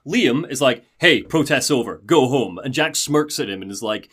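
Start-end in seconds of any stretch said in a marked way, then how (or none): 1.0-2.6 lightly acted firm command, louder; mock security guard telling-off; guard's order. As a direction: order them off the premises.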